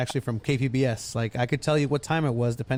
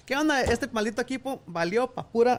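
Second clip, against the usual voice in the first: much higher, casual street talk; rowdy slang voice; 10 semitones higher than usual. Retold or imitated. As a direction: fire it off like a rowdy fan. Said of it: "Oh, no, güey".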